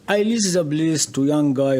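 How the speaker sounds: off-mic, distant and faint; too far from the mic; far from the microphone. Real, not acted. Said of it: "speak into this".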